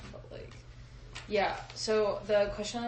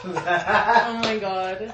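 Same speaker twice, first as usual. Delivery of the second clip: laughing; 7 dB louder, much slower than usual. Real, not acted. Reacts to a funny story.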